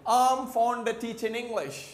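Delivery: British-style I am fond of as 'um fonda', teachin' without g; British connected speech. Shown as a demonstration. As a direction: demonstrate British linking, slowly: um fonda teachin' English. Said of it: "British को कैसे बोलेंगे". (British अंदाज़ में 'अम फ़ॉन्डा टीचिन इंग्लिश')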